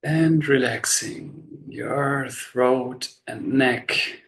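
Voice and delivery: slow, unhurried body-scan guidance with long pauses; measured meditation voice, leaving space after each instruction; guided meditation. Real, not acted. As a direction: guide them gently into relaxation, phrase by phrase.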